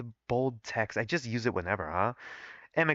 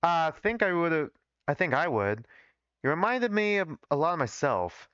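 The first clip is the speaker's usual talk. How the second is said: put-on laboured, heavy Southern accent; thick Southern accent. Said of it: "why did I make his accent so thick".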